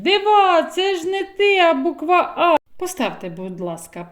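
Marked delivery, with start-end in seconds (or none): 0.0-2.6 high, loud excited call; sister calling out. Acted. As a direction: shout it like an amazed sister. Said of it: "А сестра кричить".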